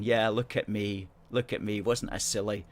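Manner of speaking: ordinary talk, nothing marked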